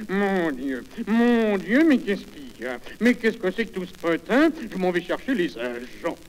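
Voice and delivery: lightly voiced scandalised concierge; concierge indignée. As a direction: play a busybody concierge fussing at the racket. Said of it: "La concierge entend ce vacarme". (concierge faussement scandalisée)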